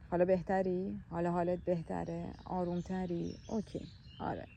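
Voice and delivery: put-on rock a scared child to calm with words; soothing inner child. Comforting imagined inner child. (لحن آرام و مهربان با کودک درون)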